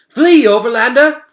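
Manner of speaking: high, loud shout with a rising end; urgent shout. A narrator's reading. Henry urging the Overlander to flee, loud and urgent. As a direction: call out to the boy to run.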